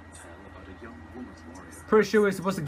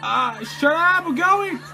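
high, giggly panic; scared, laughing; 7 semitones higher than usual. Real, not acted. Player fleeing in a horror game, scared nervous laughter. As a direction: laugh through the fright as the voice jumps up. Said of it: "I'm so scared".

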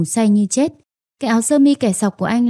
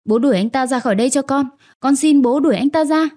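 sobbing plea; 3 semitones higher than usual. Acted. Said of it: "Tôi khóc nức nở".

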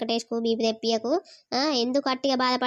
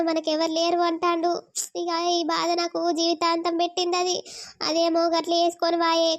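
higher-pitched, weepy complaint; tearful lament; 4 semitones higher than usual. Acted. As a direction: grieve aloud over a stubborn husband. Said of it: "ఎందుకు అట్లా ఏడ్చుకుంటా".

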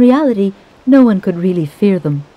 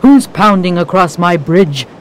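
troll yell; 4 dB louder than usual. Acted. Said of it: "screamed the troll".

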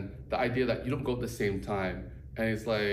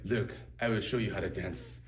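calm teacher. Retold or imitated. Imitating Jorge Torres teaching a student to move with him. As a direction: lead them gently, half laughing. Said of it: "the way he says it".

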